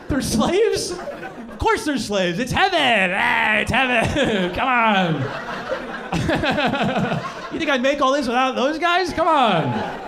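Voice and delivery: mock casual Jesus. White Jesus justifying slaves.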